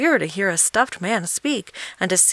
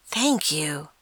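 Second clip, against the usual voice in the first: grateful. A narrator's reading. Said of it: "he answered gratefully".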